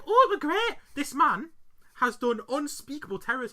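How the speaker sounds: high, loud mock raving; gushing wife. Wife looking back fondly, hammed-up gushing. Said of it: "She was like".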